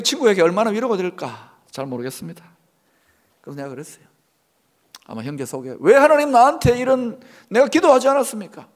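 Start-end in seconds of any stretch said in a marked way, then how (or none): 5.8-8.7 high, loud acted complaint to God; voicing a hurt student's reproach to God; resentful protest. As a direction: protest aggrievedly, pitch raised. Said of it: "원망이 있을 겁니다".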